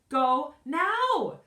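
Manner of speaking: very high, loud yell. A narrator's reading. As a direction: yell her away in a panic. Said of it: "yelled Missus Trance".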